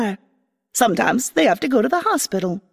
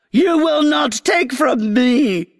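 shrieking queen, a touch higher; screeching queen; 3 semitones higher than usual. Acted. Grass queen screeching at the girl she is whipping. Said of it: "screeched the queen".

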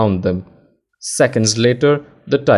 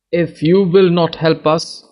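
cried out; 6 semitones higher than usual. A narrator's reading. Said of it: "cried an old woman".

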